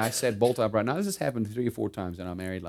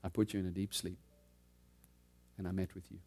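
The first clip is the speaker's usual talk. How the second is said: a softer, quiet retold divine voice; hushed gentle Spirit's words; 3 semitones lower, 12 dB quieter than usual. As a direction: speak it gently, much softer. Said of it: "gentle voice of the Holy Spirit".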